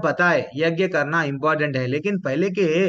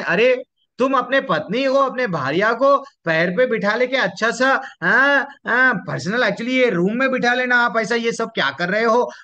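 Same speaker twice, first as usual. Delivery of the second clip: higher-pitched mock reproach; teasing rebuke; 5 semitones higher than usual. Chitraketu chiding Shiv over his wife on his lap, teasing rebuke. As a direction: act out a lightly incredulous scolding.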